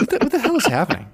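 high, fast panicked cry; mock panic. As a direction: blurt it out in a hammed-up panic. Acting confused character.

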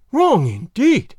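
slow, loud and indignant. A narrator's reading. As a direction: drag it out in scornful anger. Allen grumbles furiously.

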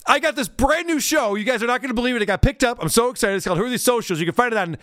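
lightly acted gushing show plug; mock self-promoter. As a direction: parody a comedian hyping a new show. Mocks comedian promoting her show.

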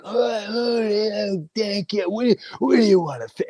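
high, quick mocking gratitude; mock them with fake thanks; sarcastic thanks. Mocking the YouTubers.

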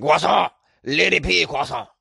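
croissant as kwa-SAH, proudly called out; Lady P croissant with French kwa-sah. Shown as a demonstration. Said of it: "the only word I can say in French".

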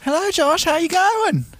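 playing Bendy. Plays Bendy on the date.

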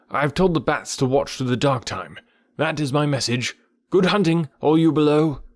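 high, urgent bird messenger; Ran the kite. Acted.

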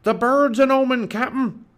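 high, loud alarmed pirate cry; Stinky shouting. A narrator's reading. Pirate warning his captain about the bird, shouting high. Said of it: "shouted Stinky".

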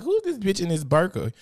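family member. Retold or imitated. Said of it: "They be like".

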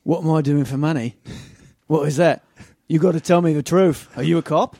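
put-on lightly done Australian bloke accent, mate; a hint of a laid-back Australian neighbour; put-on Aussie accent. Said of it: "What do you think that accent is?".

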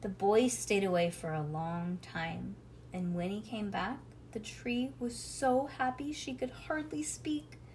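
animated bedtime story, lilting character lines; storybook reading to a child. A narrator's reading. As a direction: read a picture book aloud, lifting the tree's lines. Reads a storybook aloud to child.

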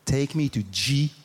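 slow, low, measured passenger request; careful request. Acted. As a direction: spell out each letter deliberately. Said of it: "I said to the driver".

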